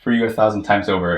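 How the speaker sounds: high, loud, emotion-filled quote; moved, voice lifted and straining; choking up. Real, not acted. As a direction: push the line out through real choked-up feeling. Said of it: "Yeah, I'm choking up".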